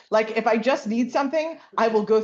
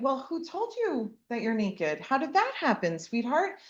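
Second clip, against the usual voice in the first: gentle parent; 4 semitones higher, 3 dB quieter than usual. Retold or imitated.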